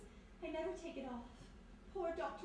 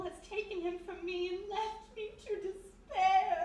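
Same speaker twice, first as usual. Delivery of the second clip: overdone grief; 2 semitones higher, 4 dB louder than usual. Acted. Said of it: "Laying it on a little thick".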